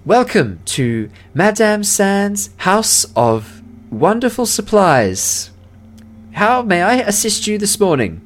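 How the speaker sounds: high, slow, grand shop greeting; gnomish shopkeeper. Acted. Gnome owner shows the clerk a proper welcome, high and slow. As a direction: announce the shop name with pomp.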